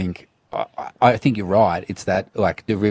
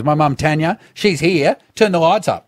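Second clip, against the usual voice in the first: calling out to the lighting crew; 4 semitones higher than usual. Retold or imitated. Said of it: "like this".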